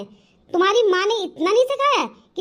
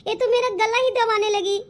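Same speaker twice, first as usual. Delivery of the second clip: acted crying. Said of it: "जो मेरी माँ रो रही है".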